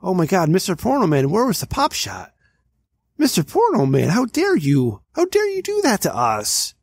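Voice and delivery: high-pitched, hammed-up scolding; theatrical indignation, pitch jumping up; mock outrage. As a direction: scold Mister Porno Man like a betrayed fan. Mock scolding the porn producer.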